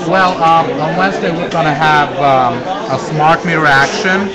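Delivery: talking with mouth full; speaking through a mouthful of food. Real, not acted. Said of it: "talk with your mouth full".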